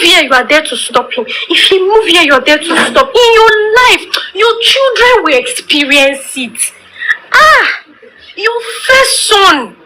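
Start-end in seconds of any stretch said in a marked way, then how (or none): 3.1-9.8 tearful warning, voice catching; near tears. Real, not acted. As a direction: say it as if about to cry. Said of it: "I feel like crying".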